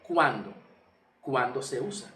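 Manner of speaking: "¿Cuándo?" posed on its own, then repeated in full; as a question. Shown as a demonstration. Preacher asking the congregation when metanoia is used, questioning "cuándo". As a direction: pose "cuándo" as a teaching question. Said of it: "En forma de pregunta, te lo estoy diciendo".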